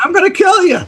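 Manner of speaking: imitating a raging threat, laughing. Sam threatening Kenny, hammed-up rage with a laugh. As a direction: play the mobster's fury while cracking up.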